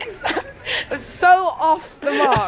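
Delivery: slow, high, laughing put-down; drawn out through laughter; laughing tease. Real, not acted. Laughing teasing verdict.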